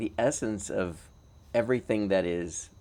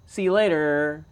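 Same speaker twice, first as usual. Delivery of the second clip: higher, louder friendly send-off; breezy quick-hug goodbye; 7 semitones higher, 6 dB louder than usual. Acted. Parting with a quick hug and on our way, breezy goodbye. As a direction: call it out like a passing goodbye. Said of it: "give them a quick hug".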